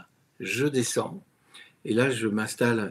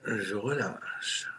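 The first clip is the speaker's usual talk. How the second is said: slow release; 3 dB quieter, much slower than usual. Shown as a demonstration.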